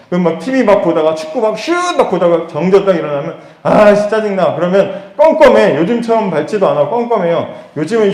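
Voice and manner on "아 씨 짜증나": raised, louder grumble of irritation; exasperated little outburst, acted; mock annoyance. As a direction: grumble like a kid cut off mid-match. Acting annoyance at blackout.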